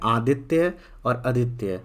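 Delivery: first आदित्य with long आ, second आदित्य with short अ; two vowel variants. Shown as a demonstration. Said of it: "अ को अ भी बोल सकते हैं और आ भी".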